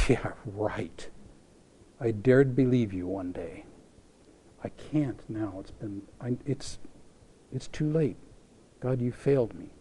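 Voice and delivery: a hurt woman giving up on a promise; bitter disbelief. Acted. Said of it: "What kind of laugh?".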